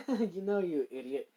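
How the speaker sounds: giggly, affectionate scolding; giggling. Acted. Shizu giggling at Issei's holy spirit mix-up, teasing. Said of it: "Shizu just kinda giggles at this".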